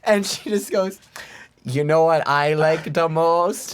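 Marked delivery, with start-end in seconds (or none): 1.6-3.7 put-on slow thick Boston accent. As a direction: drag it out like a Boston local. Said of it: "thick Boston accent".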